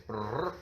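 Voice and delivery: lips-fluttering brrr; a quick rolled brrr, giving up on the list; trilled brrr. Real, not acted. Skimming pages of hard names.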